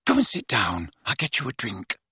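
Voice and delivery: calm him down quietly; soft hush. A narrator's reading. Hermione soothing quietly.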